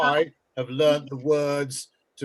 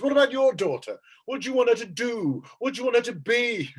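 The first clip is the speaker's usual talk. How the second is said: higher, insistent questioning; friend pressing; 6 semitones higher than usual. Retold or imitated. Friend on the phone presses the comedian, insistent and higher. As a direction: keep pushing the question at him. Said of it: "He goes".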